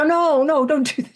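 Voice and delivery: hurried protest. Retold or imitated. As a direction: lightly imitate someone protesting in a rush. Crying mother urges her to continue.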